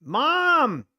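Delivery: put-on high, slow whiny kid calling Mom; mock child calling. Trader mocking himself as a kid crying for mom. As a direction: play a kid wailing for his mom.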